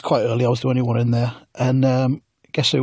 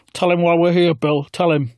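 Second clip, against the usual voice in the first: mock Corbyn; 4 semitones higher than usual. Corbyn voiced.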